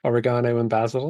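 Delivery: Oregano as o-ri-GAH-no, basil as BAZ-ul; British pronunciation. Shown as a demonstration. Brit listing classic examples, Oregano stressed on gah, basil as bazzle. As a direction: say basil to rhyme with dazzle, Oregano with long gah. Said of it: "is another classic".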